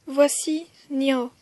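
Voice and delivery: Nio said slowly, the N and the O held apart; Khmer letter name. Shown as a demonstration. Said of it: "la dernière consonne pour aujourd'hui".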